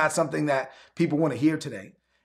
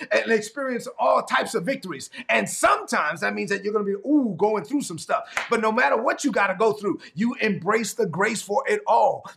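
fired-up preaching; 3 semitones higher than usual. Acted. Pastor preaching to his online congregation, fired-up preaching. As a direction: preach it hard to the church.

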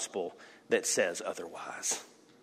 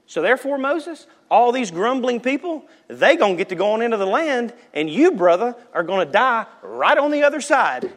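lightly voiced stern God; 9 semitones higher than usual. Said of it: "God's gonna go".

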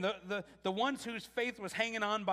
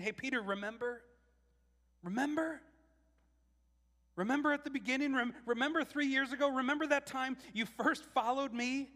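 gentle reminding; 6 semitones higher than usual. Acted. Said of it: "he's kinda saying".

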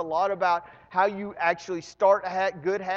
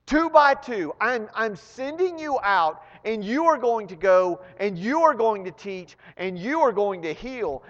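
higher, louder, rousing charge; Jesus commissioning; 4 semitones higher, 4 dB louder than usual. Retold or imitated. Jesus to his apostles, sending them out, rousing. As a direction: send them out with conviction.

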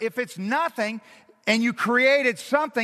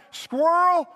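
squirrel called high, woo shouted far higher and louder; mock excited cheer; 7 semitones higher, 4 dB louder, much slower than usual. Adam with a frame of reference, mock excited shout. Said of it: "He's like".

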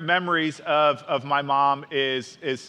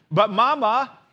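put-on higher, louder kid whine; whining little sister; 5 semitones higher, 5 dB louder than usual. A narrator's reading. Sister cub begging Mama at the checkout, whiny. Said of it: "whines sister".

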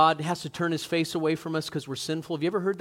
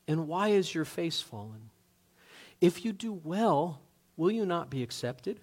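gentle God; 4 dB quieter than usual. Retold or imitated. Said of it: "God spoke to Cain gently".

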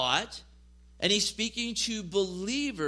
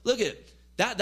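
mock cringe. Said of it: "made you cringe or like".

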